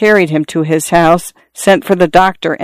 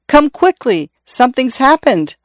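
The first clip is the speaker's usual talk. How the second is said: much higher, urgent call for help; urgent cry; 7 semitones higher than usual. A narrator's reading. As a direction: call the others over in alarm. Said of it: "he cried".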